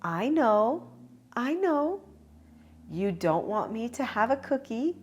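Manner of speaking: put-on high, small child voice begging; pleading toddler. Toddler begging her mom for a cookie, high child voice. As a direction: plead like a little girl. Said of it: "Now say".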